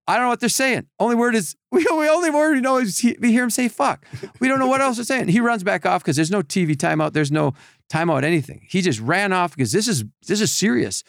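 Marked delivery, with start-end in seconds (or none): 0.1-5.3 high, excited helpless explanation; exasperated explaining. Retold or imitated. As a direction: plead you have no idea. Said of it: "and I go".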